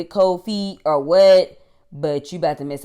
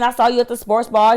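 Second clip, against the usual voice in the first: mock dude voice; 7 semitones higher, 6 dB louder, faster than usual. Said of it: "basically saying".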